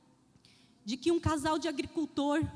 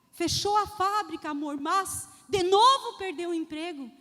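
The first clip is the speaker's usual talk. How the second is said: reproachful wife; 6 dB louder than usual. Retold or imitated.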